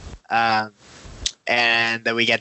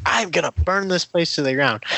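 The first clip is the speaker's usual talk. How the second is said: lightly voiced menacing villain; menacing villain threat; 6 semitones higher than usual. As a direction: toss off a half-hearted villain threat.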